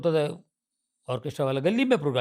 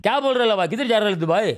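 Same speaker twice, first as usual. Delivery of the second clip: higher, louder Bambaiya street greeting; Dharavi street dialect; 4 semitones higher, 3 dB louder, faster than usual. Retold or imitated. A local greeting a friend on the lane, Dharavi street dialect. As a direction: greet a local buddy in loud Dharavi slang. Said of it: "Dharavi का same language".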